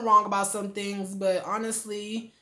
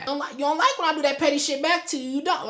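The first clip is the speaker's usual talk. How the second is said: annoyed; 6 semitones higher, 3 dB louder than usual. Retold or imitated. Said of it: "now you can tell he's getting mad".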